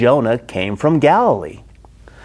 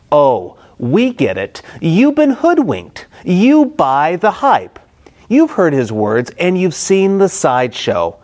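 mocking scorn; 2 semitones higher than usual. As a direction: scoff at the fooled officers. Pharisees mock the temple police.

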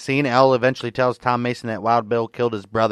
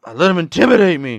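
high, loud mock outrage; pissed-off Jane; 8 semitones higher, 6 dB louder than usual. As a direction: act out her indignation, pitched up. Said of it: "She's fucking pissed off that Al intimidated her".

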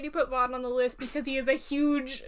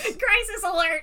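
nasal voice; 7 semitones higher, 7 dB louder than usual. Retold or imitated. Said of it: "a really nasally voice".

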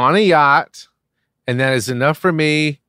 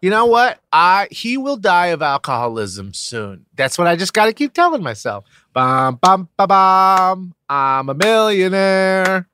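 much higher, money-hungry wife voice; greedy wife; 4 semitones higher than usual. Acted. Gold-digger wife gloating over money, high voice. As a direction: sing out the greed, high and giddy.

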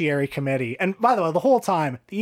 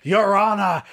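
Al Pacino impression; 4 semitones higher than usual. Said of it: "Al's like".

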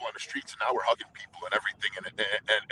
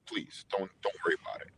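gentle hush; 3 semitones lower, 6 dB quieter than usual. Retold or imitated. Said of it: "He goes".

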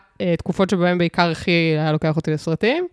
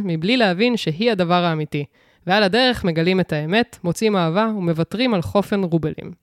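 measured storytelling read of a prepared summary; synopsis read-out. Acted. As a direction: read it out like a film blurb. (הקראת תקציר מוכן)

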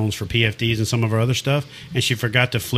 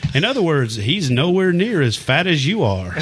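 mock blunt punchline; 5 semitones higher than usual. Storyteller spells out what the wife meant, mock emphatic.

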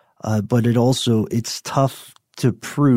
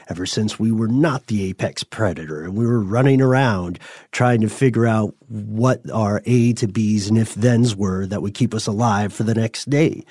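normal talking voice

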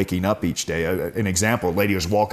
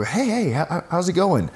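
higher, bright hello to a neighbor; cheery greeting; 10 semitones higher than usual. Retold or imitated. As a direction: call out a friendly hey across the street. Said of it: "and I go".

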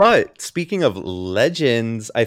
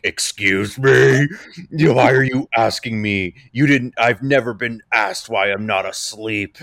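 affronted retort. Retold or imitated. Housemate asked why she isn't in bed, affronted retort. Mimics housemate offended by question.

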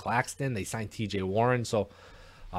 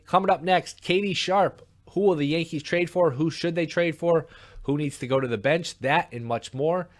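bright, higher promo tease; announcer voice; 6 semitones higher than usual. Acted. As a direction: hype the next segment like an announcer. Teases the next segment.

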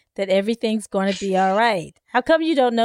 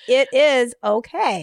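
slow, soothing, louder reassurance; mock therapist calming a patient, drawn out; soothing counselor voice; 3 semitones higher, 5 dB louder, slower than usual. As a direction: talk someone down gently and slowly. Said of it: "I need a voice to calm me down".

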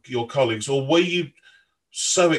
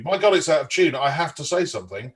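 mildly raised, urgent inner voice; a mock alarmed thought, a touch louder; inner scream; 3 semitones higher, 3 dB louder than usual. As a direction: let the panic in your head leak out, half-mocking. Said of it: "your ears are screaming to you".

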